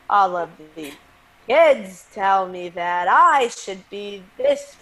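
lightly voiced John Mulaney, slow and drawn out; a hint of Mulaney's measured storytelling cadence; light Mulaney impression, slow deliberate drawl. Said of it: "That's literally how he talks".

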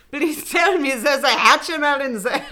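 hammed-up vampire accent turning German; German-sounding vampire. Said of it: "It's so German".

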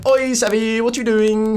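high, giddy put-on British greeting. Student impersonating his friend for the hosts, bubbly high British. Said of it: "all bubbly, like, British voice".

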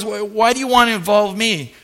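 mildly indignant brush-off; retold prophet's mild sass; with attitude. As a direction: send them away dismissively. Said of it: "Can you hear the attitude here?".

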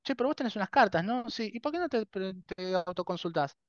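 high-pitched acted self-questioning; mock helpful suggestion. Talking to oneself about the cards, mock helpful suggestion. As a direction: pitch it up, suggesting the obvious to yourself. Acts out suggesting an idea to herself.

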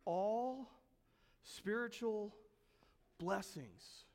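all spiritual blessings said softly, sinking to near silence; hushed repeat. Shown as a demonstration. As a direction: let the phrase sink in, almost breathed. Preacher repeats phrase hushed.

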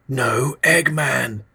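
high, very slow reedy murmur; a reedy, drawn-out repeat; thin reedy whisper. Acted. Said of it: "he whispered".

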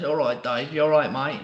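a hint of a cheery geezer greeting; lightly voiced geezer, easy and matey; imitating a geezer. Imitating the Blockbuster manager greeting a customer, lightly voiced geezer. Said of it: "he talked like this".

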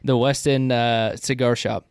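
talking around a pipe stem; pipe in mouth. Real, not acted. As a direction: speak with a pipe clenched in teeth. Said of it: "it's hard to talk with".

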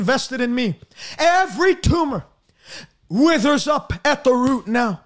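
rhythmic, declaring prayer cadence; healing prayer. Acted. Preacher prays over viewers' sicknesses in a rhythmic, commanding cadence.

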